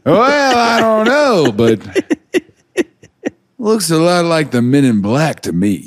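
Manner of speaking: slow, drawn-out detective hunch; laughing old-time detective voice; fifties detective. Retold or imitated. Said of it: "fifties detective who just, like, really followed a hunch".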